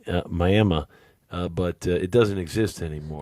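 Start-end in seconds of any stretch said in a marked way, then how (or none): 0.3-0.8 "Miami" with a dropped final ee, my-AM-uh; old Miami local "Miami"; old Miami pronunciation. Shown as a demonstration. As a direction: clip the ending of "Miami" to uh. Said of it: "it was very Miami".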